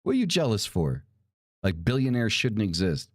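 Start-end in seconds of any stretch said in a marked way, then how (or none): 0.0-1.0 indignant outburst. Real, not acted. Ranting at eat-the-rich crowd.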